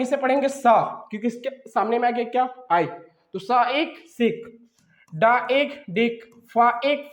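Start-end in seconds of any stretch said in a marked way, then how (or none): 0.5-1.1 "सा" with an s sound instead of k; soft c sound. Shown as a demonstration. Teacher correcting का before I, soft s sound. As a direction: say "सा" with a clear hissed s, not का. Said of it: "इसे का नहीं पढ़ेंगे".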